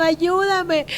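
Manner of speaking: high wailed plea for help; hammed-up tearful begging; mock crying. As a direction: cry out pleadingly, imitating tears. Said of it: "y estoy llorando".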